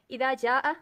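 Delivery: slow recitation of the verse "इदा जाअ नस्रुल्लाहि"; धीमी तिलावत; Quran recitation. Shown as a demonstration. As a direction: recite the ayah slowly and carefully. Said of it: "अब कुरान पाक की आयत है".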